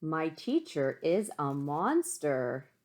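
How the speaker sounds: slow storybook title reading; slow read-aloud title; title read slowly. Shown as a demonstration. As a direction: announce the title slowly to the class. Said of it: "let's start the book".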